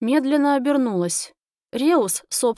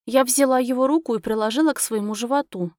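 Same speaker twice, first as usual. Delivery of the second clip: ordinary delivery, nothing marked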